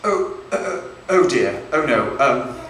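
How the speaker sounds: hesitant, awkward British fretting; reserved British. Acted. British comic parodying British porn, reserved and awkward. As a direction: hold back with halting, polite little protests. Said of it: "we're much more reserved".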